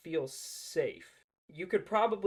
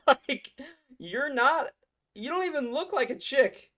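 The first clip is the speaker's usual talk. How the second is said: louder, higher mocking jeer; loud mockery; 8 semitones higher, 6 dB louder than usual. Real, not acted. Ridiculing the woman in the clip, loud and high.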